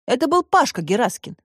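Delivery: ordinary delivery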